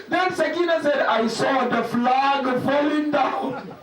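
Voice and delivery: plaintive lament, stretched words; mournful recitation. Acted. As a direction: wail the dialogue out as a mourning chant. Laments the martyrdom story.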